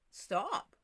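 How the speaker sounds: Jesus commanding the storm, firm and sure; with authority. Retold or imitated. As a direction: say "Stop." like a command that cannot be refused. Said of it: "with authority".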